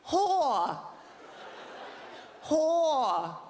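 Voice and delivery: lightly put-on princess voice, firm; hint of a foreign accent; mock Japanese accent. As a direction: repeat it like a tiny royal. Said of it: "she goes like this".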